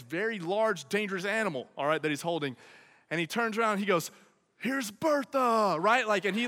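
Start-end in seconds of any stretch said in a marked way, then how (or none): 4.6-5.8 handler's reveal. Retold or imitated. Handler presenting stingray.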